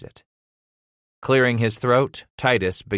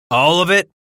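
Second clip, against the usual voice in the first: loud, raised, disbelieving question; incredulous anger; 9 semitones higher, 8 dB louder than usual. A narrator's reading. Father challenging son's excuse, incredulous. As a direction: pounce on his answer.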